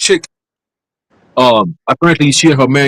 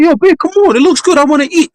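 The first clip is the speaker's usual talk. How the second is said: put-on much higher, whiny pleading boyfriend voice; pleading husband; 12 semitones higher than usual. Husband begging his girlfriend to let him eat, high and whiny. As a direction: beg for the plate in a high whine. Man begging wife for food.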